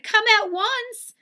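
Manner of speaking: high, slow, loud command; Missus Watson shouting. A narrator's reading. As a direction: call out in urgent alarm. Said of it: "she shouted".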